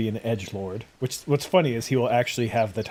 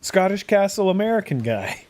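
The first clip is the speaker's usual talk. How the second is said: excited fan; 8 semitones higher, 6 dB louder than usual. Retold or imitated. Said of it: "They're like".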